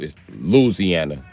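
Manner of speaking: slow Louisiana as "Loo-zee-anna"; corrected pronunciation. Shown as a demonstration. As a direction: draw out Louisiana, pitch dropping. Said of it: "We saying Louisiana wrong".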